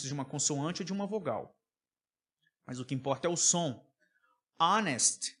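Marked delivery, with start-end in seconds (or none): 4.6-5.4 "Honest" said as "onest"; silent H. Shown as a demonstration. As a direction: start Honest on the vowel. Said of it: "onde o H não tem som".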